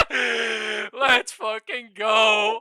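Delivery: shrieking laugh then very slow loud yell; real victory yell; screaming. Real, not acted. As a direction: celebrate at the top of your lungs. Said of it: "I'm sorry for screaming".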